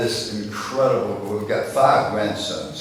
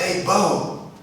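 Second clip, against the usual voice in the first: higher, lightly voiced little boy calling "Hey, Bo"; grandson calling out; 10 semitones higher, 5 dB louder than usual. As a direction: call him over like a cocky kid.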